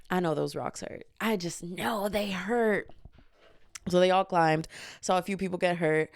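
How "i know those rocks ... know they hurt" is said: quiet sympathy. Retold or imitated. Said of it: "I was like".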